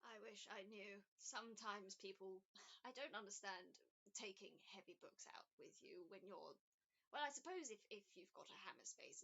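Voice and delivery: a hint of a kindly, unsure old woman; elderly woman. GM voices Elizabeth, an elderly woman.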